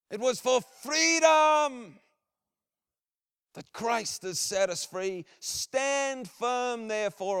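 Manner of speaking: big, high shout, slow and drawn out; rally the hearts like William Wallace on the hills. Retold or imitated. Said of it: "what it would sound like when he declares".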